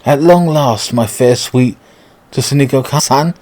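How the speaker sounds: lightly voiced posh English suitor; a touch of theatrical English gentleman. Suitor greets his long-lost love, lightly posh and theatrical. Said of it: "speaking like that if they're really posh".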